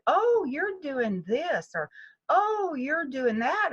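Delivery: drawn-out, curious student voice; a touch of a puzzled student; quoting students. Retold or imitated. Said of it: "people have said".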